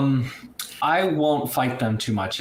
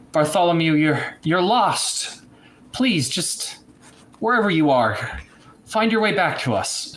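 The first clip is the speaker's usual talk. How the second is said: raised-pitch, halting appeal to someone lost; heartfelt plea; 6 semitones higher than usual. Acted. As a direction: call out imploringly, with pauses between phrases. Reed pleads with lost Bartholomew.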